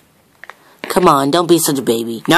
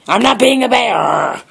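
high whiny protest; 7 semitones higher than usual. Acted. Kid voicing character in dispute.

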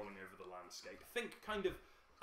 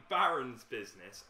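leaning in; 10 dB louder than usual. Acted. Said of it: "So you lean in and say".

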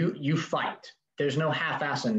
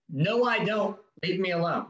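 firm refusal; 4 semitones higher than usual. Shown as a demonstration. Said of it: "My immediate response to those is".

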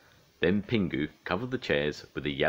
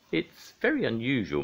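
higher, pleased mother's voice; smiling; 8 semitones higher than usual. A narrator's reading. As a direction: remark with an audible smile. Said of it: "Mum smiled".

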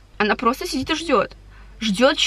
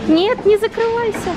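calling out; 11 semitones higher, 4 dB louder than usual. Real, not acted. Calling out to closing gate.

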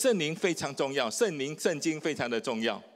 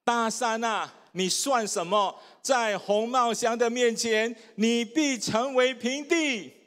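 read aloud louder; 5 semitones higher, slower than usual. Shown as a demonstration. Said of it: "好，大声念一次".

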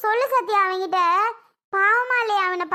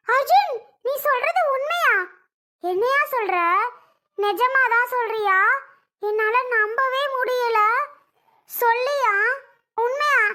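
high, astonished disbelief; mother stunned by news of a grandson, high and disbelieving; 5 semitones higher than usual. Acted. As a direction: gasp out the questions in shock.

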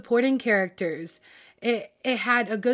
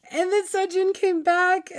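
giddy high squeal; 9 semitones higher than usual. Real, not acted. Fan gushing to viewers about the scene, giddy squeal. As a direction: voice jumps up, giddy with delight.

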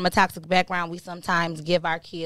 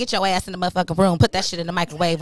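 fast mock strict mama; 2 semitones lower, much faster than usual. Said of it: "mama woke me up with a slap".

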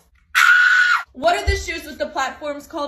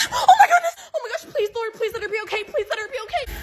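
panicked prayer; 6 semitones higher, faster than usual. Acted. Mom panicking praying.

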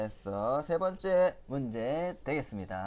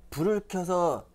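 playful quiz; 4 semitones higher, 5 dB louder than usual. Acted. Teacher quizzing children.

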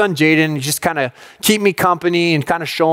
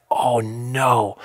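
hushed dread; 6 semitones lower, 5 dB quieter than usual. Retold or imitated. Sudden dread in retold story.

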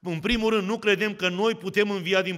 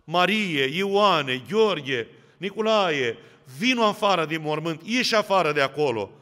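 calling by name. Acted. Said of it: "ne strigă".

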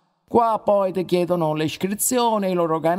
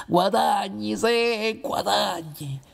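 scoffing laugh; 3 dB quieter, slower than usual. Acted. Ride della domanda sui guadagni.

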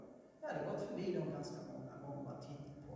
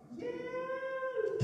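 high, loud panicked shriek; a frightened cry of help; scream for help; 7 dB louder than usual. Retold or imitated. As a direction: yell it like a man fleeing in terror. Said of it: "skrikande därifrån".

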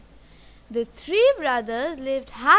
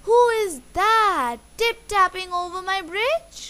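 louder, higher troll challenge; lightly voiced troll, raised and emphatic; storybook troll growl; 6 semitones higher, 5 dB louder than usual. A narrator's reading. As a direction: demand it loudly as a storybook troll. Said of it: "growled the troll".

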